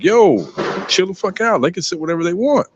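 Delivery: high-pitched "chill out" protest; imitating restaurant staff. Denny's staff to the white father, high-pitched retold protest. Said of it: "Now, the Denny staff, they were like".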